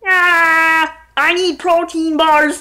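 lightly voiced, feeble dying groan; a hint of a dying hippie's last words. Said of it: "the sound of a dying hippie".

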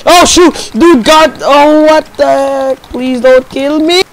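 loud panicked outbursts; startled yelling. Real, not acted. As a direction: yelp in surprise at the attack. Sudden attack in game.

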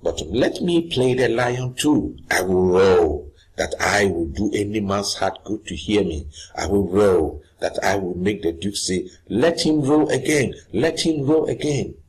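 hammed-up eager player; eager Bottom. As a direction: boast about roaring, getting carried away. Playing Bottom, eager to roar.

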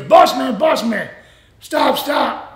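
imitating a friend calling you back. Retold calling after departing driver.

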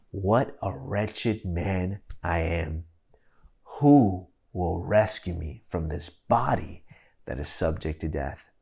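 slow, measured Bible reading; scripture reading. Acted. Preacher reading Paul's letter to the church, slow. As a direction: read the verses slowly and gravely. Reads verse twenty-four.

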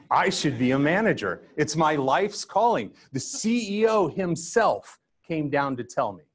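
high, grandly delighted proclamation; mock self-important elation. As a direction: act out being swept up in your own greatness. Replays his swollen pride at promotion.

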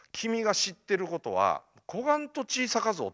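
mentor's line with a touch of Kumamoto dialect. Retold or imitated. Mentor to student on how little he knows, light Kumamoto dialect. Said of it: "熊本弁が師匠のセリフみたいな".

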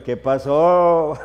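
slow, drawn-out ranchero hello; ranchero greeting. Shown as a demonstration. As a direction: drag the greeting like a ranch hand. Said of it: "Ranchero en plena sede mundial". (saludo ranchero muy lento)

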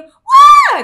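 very loud, piercingly high squeal; imitated child's scream. Mother imitates Chloe screaming again in the car, excited shout. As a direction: shriek out like a thrilled child. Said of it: "Tiba-tiba dia teriak lagi".

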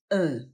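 E as a low, dull "uh"; low frog vowel. Shown as a demonstration. Teacher introduces the next sound in Sunday, low "uh" for E. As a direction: drop the tongue and say E as a dull "uh". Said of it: "trzecie to niskie".

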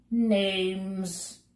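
a brisk official calling out names. A narrator's reading. Census taker stopping the bug on the stair, brisk call. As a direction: snap it out like a busy clerk. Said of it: "called out briskly".

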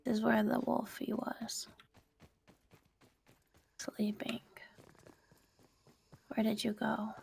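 hushed whisper near danger. Real, not acted. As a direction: whisper so nothing wakes. Whispering near sleeping wolf.

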